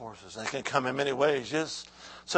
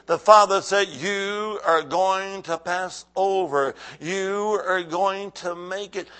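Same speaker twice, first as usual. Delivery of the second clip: emphatic preaching; 4 semitones higher, 7 dB louder than usual. Real, not acted. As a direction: preach it with weight, stretching key phrases. Preaches to the church.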